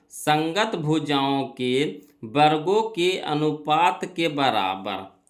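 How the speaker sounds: measured, drawn-out teaching delivery; word-by-word dictation pace; slow rule recital. Real, not acted. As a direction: recite it slowly so it sticks. Reciting the rule slowly for students.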